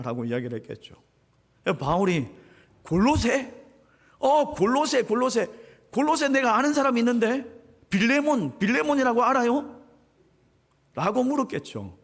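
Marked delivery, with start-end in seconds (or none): 2.8-9.8 higher, brighter Paul voice, pleasantly surprised. Acted. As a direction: play Paul recognizing the town, lifted and eager. 바울이 놀라며 묻는 장면. (놀라서 반가워하는 바울 목소리)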